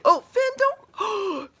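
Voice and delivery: high, slow, wailing plea; whiny protest to the dog. Real, not acted. Owner pleading with her dog dragging his bottom, high drawn-out whine. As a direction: whine at him to stop.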